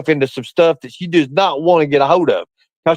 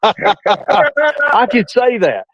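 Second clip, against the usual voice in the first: stretched very slow and a bit higher; drawn out; 4 semitones higher, much slower than usual. Acted. Gloating to his co-host, drawn out very slowly. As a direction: savour each word, dragging it out. Teasing repeat of own joke.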